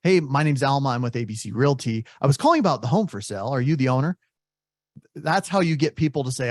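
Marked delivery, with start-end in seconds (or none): 0.0-4.2 rushed agent pitch. Retold or imitated. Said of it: "Or if you up front say".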